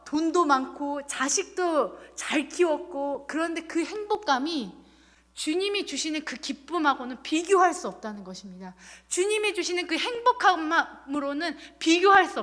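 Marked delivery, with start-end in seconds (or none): none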